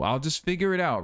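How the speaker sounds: breezy, lifted mock-optimism; mock carefree. Mocking his own plan with light breeziness. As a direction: toss it off like a naive plan. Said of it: "And what a weak plan to have".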